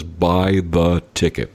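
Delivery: slow, low deadpan voice from above; voice of God. Retold or imitated. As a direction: deliver the punchline slow and dry. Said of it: "And a voice says".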